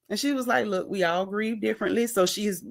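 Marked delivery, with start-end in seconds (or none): 0.7-2.1 softer, calmly reasoning voice; calm, measured imitation; calm retelling. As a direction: explain it gently and evenly, imitating her. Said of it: "calmly expressing to her".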